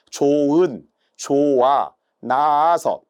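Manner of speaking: slow, demonstrated "조은, 조아, 나아서" with no h sound; ㅎ dropped. Shown as a demonstration. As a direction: say "조은, 조아, 나아서" syllable by syllable, vowels running together. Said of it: "동시에 발음상에서".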